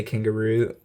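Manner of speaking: "kangaroo" with a longer O sound at the end; "kangaroo", its closing "oo" held a little long; drawn-out final vowel. Real, not acted. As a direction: stretch the last vowel of "kangaroo". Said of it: "it comes out with a longer O".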